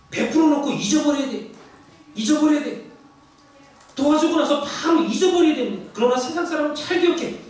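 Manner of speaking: fervent pulpit emphasis; forceful preaching. Acted. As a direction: exhort the congregation to forget their giving.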